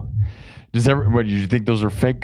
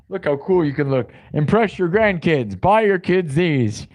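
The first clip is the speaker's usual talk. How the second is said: grandma voice; 6 semitones higher than usual. Pretend. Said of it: "I'm channeling your grandma".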